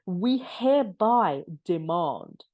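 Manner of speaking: slow, whispered mock-grand reading; mock pompous legalese. Vlogger mocking the lawyers' letter, whispered and slow. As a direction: savour each word like a pompous decree. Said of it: "do any of you guys talk like that".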